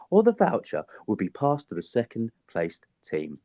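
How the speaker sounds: polished phone-manner reading voice; telephone voice. Acted. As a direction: read it like a polite receptionist on the phone. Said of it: "That's my telephone voice".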